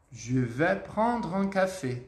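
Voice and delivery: slow, careful café order; deliberate French demonstration; slow model sentence. Shown as a demonstration. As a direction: stretch each word for learners.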